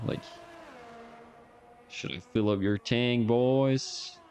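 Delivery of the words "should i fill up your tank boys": lightly put-on country girl accent. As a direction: call to the boys in a country accent. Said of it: "she's from the country".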